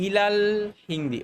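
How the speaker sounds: ইলাল হিন্দি linked, the a of al dropped; read joined together. Shown as a demonstration. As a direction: join ila and al into ইলাল, drawn out before হিন্দি. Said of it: "একসাথে পড়ে যাওয়ার সময় আমরা এভাবে বলি".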